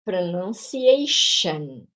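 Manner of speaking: Pronunciation stretched, each syllable separate; Pronunciation spoken at a slow, syllable-by-syllable pace. Shown as a demonstration. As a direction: spell out Pronunciation slowly in sound. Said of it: "É o mesmo som".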